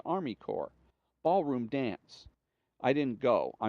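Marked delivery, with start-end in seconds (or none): 1.2-2.3 "Ballroom dance" dragged out slowly, each word weighed; slow deadpan repeat. Retold or imitated. Reader repeating the course name, slow and dry.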